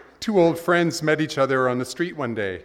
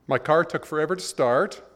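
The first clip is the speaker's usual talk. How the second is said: complaining man; 4 semitones higher than usual. Retold or imitated.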